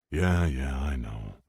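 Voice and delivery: low sleepy rumble; deep morning voice. Acted. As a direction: rumble it, barely awake. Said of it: "Mike rumbled in his deep morning voice".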